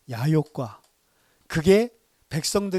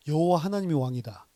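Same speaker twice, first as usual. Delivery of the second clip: rebuking; 4 dB louder than usual. Retold or imitated. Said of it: "막 질책을 한다고".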